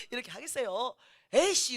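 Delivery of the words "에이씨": high, loud grumbling "에이씨!"; annoyed curse. Retold or imitated. Grown child cursing back at mother. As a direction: spit it out like a sulky teen.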